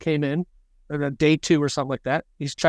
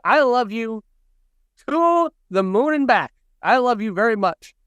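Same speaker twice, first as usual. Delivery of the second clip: tender dad; 5 semitones higher than usual. Retold or imitated. Dad telling son he loves him.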